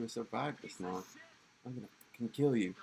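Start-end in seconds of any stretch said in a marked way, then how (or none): 1.6-2.7 furious threat. Acted.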